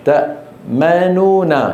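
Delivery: تأمنون said slowly, first nun reduced; rawm example. Shown as a demonstration. Teacher slowly models rawm in تأمنون for students. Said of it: "هذا هو ضبط الروم".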